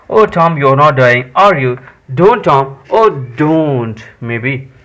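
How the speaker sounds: slow, deliberate read-out plea; story dialogue read-aloud. Acted. Sid begs Tom not to die, slow read-aloud. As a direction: read the boy's pleading out carefully.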